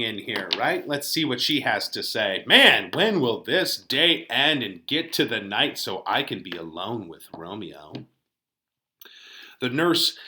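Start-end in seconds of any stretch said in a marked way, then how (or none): 2.5-8.1 a lightly voiced young Juliet, longing for night; Juliet read aloud. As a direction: read her lines as an impatient girl in love. Teacher reads Juliet's lines aloud.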